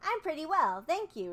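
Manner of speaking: put-on polite girl. Dorothy answers the Scarecrow, high and polite. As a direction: answer nicely like a well-bred girl. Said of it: "replied Dorothy politely".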